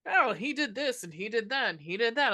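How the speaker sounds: singsong mock storytelling; mock rambling recap. Film fan mimics the endless backstory, mock rambling recap. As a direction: swoop up and down, reeling off a list.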